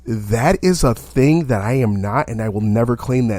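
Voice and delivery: slow, measured, nicely put refusal; polite refusal. Retold or imitated. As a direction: decline very nicely, taking your time. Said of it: "I said to them very nicely".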